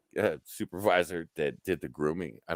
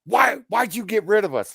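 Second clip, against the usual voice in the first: higher, louder hurt demand; upset young worker; 13 semitones higher, 6 dB louder than usual. Retold or imitated. Girls storming into his office, a higher louder demand. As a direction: burst in demanding an answer.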